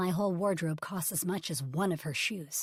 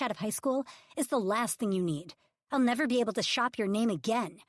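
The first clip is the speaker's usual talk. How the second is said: higher, louder exasperation; exasperated plea; 4 semitones higher, 5 dB louder than usual. Acted. Publicist pressing Ridge about bad press, exasperated and loud. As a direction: push him to see reason.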